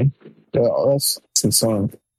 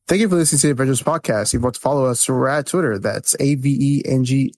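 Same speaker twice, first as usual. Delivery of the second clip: brisk outro read from memory; podcast outro read. Pretend. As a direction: rattle off the sign-off. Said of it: "do the outro by memory".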